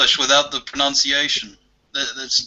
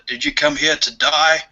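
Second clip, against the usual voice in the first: raised voice, only half shouted; mild mock shout; 3 semitones higher, 3 dB louder than usual. Australian soldier to New Zealander in war, mild mock shout. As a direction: call it out lightly as a joke's setup. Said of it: "the Australian shouts at the New Zealander".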